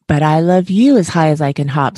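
a touch of a smile, fond and steady; smiling. Acted. Big hare answering his little one, mildly smiling. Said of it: "smiled Big Nut Brown Hair".

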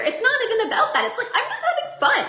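giggly carefree laugh. Real, not acted. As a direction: laugh it off lightly. Laughing at the idea.

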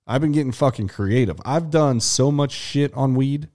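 high, loose and giggly; stoned. Real, not acted. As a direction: talk like you're high. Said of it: "I'm high right now".

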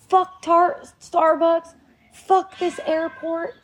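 high, hammed-up angry yelling of a kid; imitating a ten-year-old raging at the airport; mock tantrum shout. Mother retelling her son's airport meltdown, mock furious yelling.

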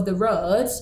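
road said as rod, Yorkshire vowel; Yorkshire short o in road; Yorkshire accent. Real, not acted. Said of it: "sorry, my Yorkshire accent".

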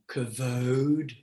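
"kavod" as kuh-VODE, with a long o; alternative pronunciation. Shown as a demonstration. Teacher offers another Hebrew reading, "kavod" as kuh-VODE. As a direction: draw out "kavod" slowly, stressed long second syllable. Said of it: "if you want to".

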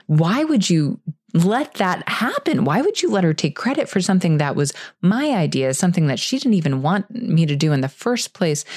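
mild, exasperated mock yell with emphatic questions; retold yelling. Employee protesting to boss about stolen idea, mild retold yelling. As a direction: re-enact an indignant rant without really shouting. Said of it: "after I was finished yelling".

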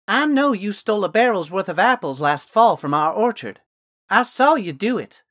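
put-on high, loud, certain girl voice; matter-of-fact girl. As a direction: state it plainly, sure of herself. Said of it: "the girl said matter-of-factly".

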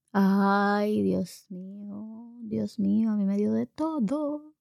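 drawn-out, weary sigh of dread; oh-my-God despair; exasperated. Acted. Mother's exasperated inner reaction.

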